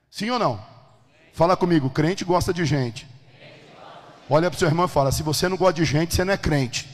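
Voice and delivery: loud call for the congregation to answer; full-force preaching. Real, not acted. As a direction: preach it hard and demand an amen. (pregação em voz alta, convocando a igreja)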